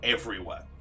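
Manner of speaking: lightly voiced general, weighing each phrase; general's pitch. General pitching his cause to fire guy, deliberate. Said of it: "he basically gives him the pitch".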